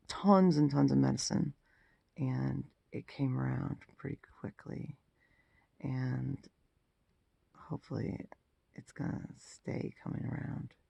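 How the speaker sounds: hoarse after a throat tube; rough, worn-out gravelly voice. Real, not acted. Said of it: "I'm sure I sound like gravelly mess".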